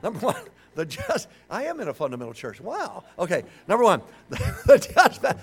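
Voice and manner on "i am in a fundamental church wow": dry sarcastic aside. Real, not acted. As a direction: toss in a sarcastic wow. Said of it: "just being sarcastic".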